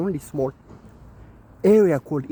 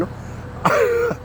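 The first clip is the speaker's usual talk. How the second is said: squeaky drawn out. Acted. Odd squeaky aside.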